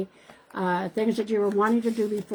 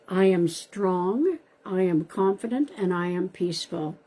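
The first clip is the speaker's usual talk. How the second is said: slow affirmation read. Shown as a demonstration. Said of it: "give you an affirmation card".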